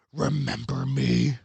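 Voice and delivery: menacing demon, lightly voiced; understated demonic taunt. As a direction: draw it out like a demon. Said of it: "said in a demonic voice".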